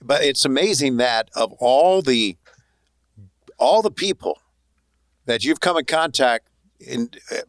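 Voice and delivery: ordinary delivery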